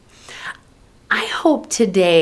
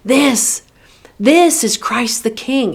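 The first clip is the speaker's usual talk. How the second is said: emphatic refrain leaning on "This"; 4 semitones higher than usual. Acted. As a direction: stress THIS, pause, then repeat it firmly. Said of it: "to me, it sounds so emphatic".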